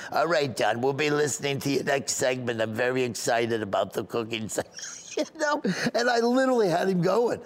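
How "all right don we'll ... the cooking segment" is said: lightly voiced old Boca lady; a hint of little-old-lady caller; Iris. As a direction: sign off as an elderly fan.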